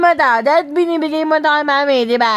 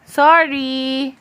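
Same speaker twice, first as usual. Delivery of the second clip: modelled apology. Shown as a demonstration.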